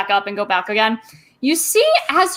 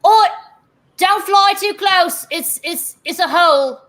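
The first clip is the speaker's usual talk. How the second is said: lightly voiced dwarven mall cop, a bit higher; a flustered constable waving adventurers off the hole; a hint of a fussy dwarf guard calling out; Barnabas, warning; 3 semitones higher than usual. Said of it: "Barnabas, looks around and goes".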